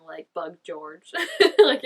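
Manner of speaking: laughing. Real, not acted. Laughing at the thought.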